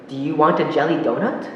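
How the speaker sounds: rising tune on donut; question rise. Shown as a demonstration. Teacher showing a question rising on "donut?". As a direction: lift the end of "donut?" upward like a question. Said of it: "I went up at the end of donut".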